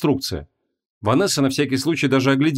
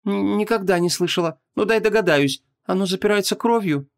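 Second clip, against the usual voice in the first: guessing; 9 semitones higher than usual. A narrator's reading. Vanessa guessing.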